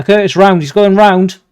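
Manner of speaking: breathless commentary; out of breath. Real, not acted. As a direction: puff it out, short of breath. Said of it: "I'm running out of breath here".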